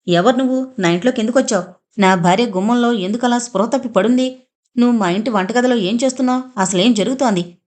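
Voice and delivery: a touch of anger, pressing question after question; mildly heated demands for answers; agitated questioning. Acted. Keerthan confronting the intruder in his kitchen, mildly agitated. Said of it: "ఆవేశంగా అడిగాడు కీర్తన్".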